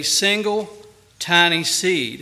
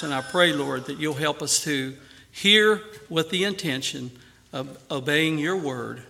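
prayer; 2 semitones lower than usual. Acted. Pastor leads closing prayer.

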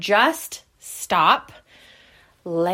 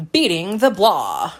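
newscaster voice; 3 semitones lower than usual. Real, not acted. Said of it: "I just sounded like a newscaster".

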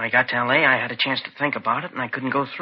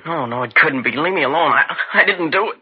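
rising higher and more frantic to the end; panicky denial; 3 semitones higher than usual. Acted. Boy breaking under detectives' grilling, rising panic. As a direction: crack under the pressure, begging.

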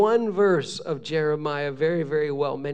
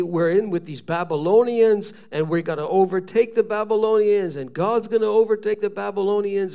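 louder, rallying crowd talk; confident boasting; 3 semitones higher, 5 dB louder than usual. Retold or imitated. People among the exiles predicting a takeover, boastful. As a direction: imitate people boasting of victory.

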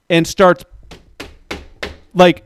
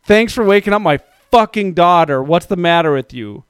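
retold angry yell. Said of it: "yelled at them".

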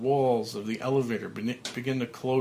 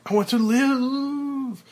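high, loud pleading shout rising higher; desperate cry; 13 semitones higher, 7 dB louder, slower than usual. Acted. Frank pounding the coffin, desperate shout. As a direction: beg for your life at full voice. Bursting out of the elevator.

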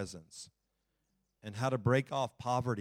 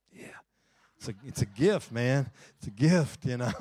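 smug boast; 6 dB louder than usual. Retold or imitated. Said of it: "and I say".

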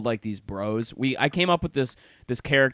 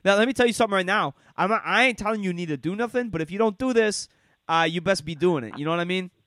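higher, quick bro lecture; Sammy lecturing; 5 semitones higher than usual. Retold or imitated. Sammy lecturing a friend on what to do, higher and quick. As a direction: push advice fast while saying it isn't advice. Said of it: "that Sammy will do".

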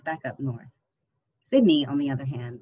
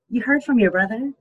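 light Jamaican lilt, asked higher; a mother's question in Jamaican lilt; subtle Jamaican accent; 8 semitones higher, 7 dB louder than usual. A narrator's reading. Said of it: "in her subtle Jamaican accent".

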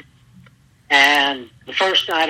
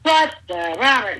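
angry yell; 6 semitones higher than usual. Retold or imitated. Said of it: "he's screaming, hollering".

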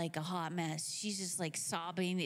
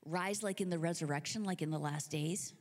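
tentative questioning; 4 semitones lower than usual. Acted. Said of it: "needs a little bit of clarification".

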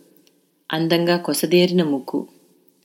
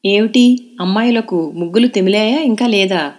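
a mother's higher, louder teasing call; laughing mother; 4 semitones higher, 4 dB louder than usual. A narrator's reading. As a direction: call out to the girls, amused. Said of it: "నవ్వుతూ అడిగింది తన్మయి తల్లి". (అమ్మ నవ్వుతూ పిలుస్తూ అడగడం)

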